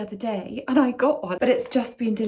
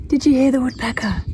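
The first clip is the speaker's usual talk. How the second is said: excited; 4 semitones higher, 6 dB louder, faster than usual. Real, not acted. Woodpecker heard in garden.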